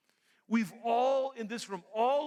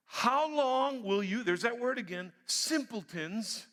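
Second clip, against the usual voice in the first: rebuking call; 3 semitones higher, slower than usual. Acted. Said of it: "first kind of person".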